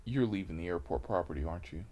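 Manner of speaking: low, soft, quick exchange; discreet aside. Retold or imitated. Officer privately telling driver to leave, low and quiet. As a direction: drop it low, off to the side.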